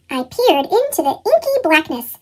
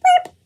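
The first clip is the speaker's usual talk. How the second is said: tiny burp; 14 semitones higher than usual. A narrator's reading. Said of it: "let out a tiny".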